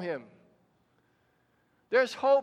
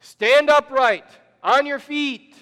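slow, booming command, much louder; 4 semitones higher, 11 dB louder, slower than usual. A narrator's reading. Paul commands the crippled man to stand, loud and slow. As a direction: call it out slowly so the whole crowd hears. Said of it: "said in a loud voice".

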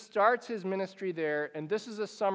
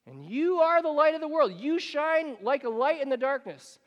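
rousing quote; 6 semitones higher than usual. Acted. Jesus declaring to his followers, rising and bold. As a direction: build it up with conviction. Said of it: "Jesus saying".

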